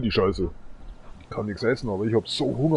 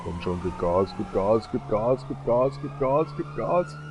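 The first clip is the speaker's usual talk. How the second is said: urging; slower than usual. Real, not acted. Urging the car on while driving.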